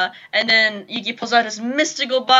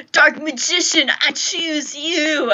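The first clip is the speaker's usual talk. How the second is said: slow, higher trainer shout; Pokemon trainer call; 4 semitones higher, much slower than usual. Retold or imitated. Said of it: "like Pokemon".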